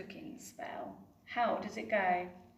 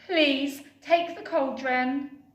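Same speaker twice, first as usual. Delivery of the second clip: eager offer; 4 semitones higher, 5 dB louder than usual. Acted. Betty offering dragon the pot.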